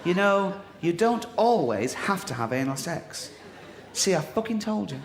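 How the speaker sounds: put-on old pensioner reading aloud, smug at the end; mild old-timer voice, vindicated; pensioner reading flyer. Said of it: "pensioners browsing, what's this one".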